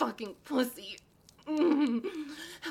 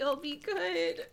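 teary begging promise; voiced, tearful promise; crying plea; 5 semitones higher than usual. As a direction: beg through tears. Voiced plea after whisper.

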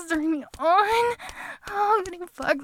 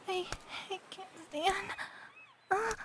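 spent afterglow; 3 semitones lower, 8 dB quieter than usual. Acted. Breathless afterglow after the climax.

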